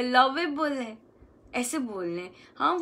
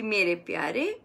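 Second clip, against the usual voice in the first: tender; 4 semitones lower than usual. Shown as a demonstration. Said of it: "ऐसे बोल रहे हैं कि".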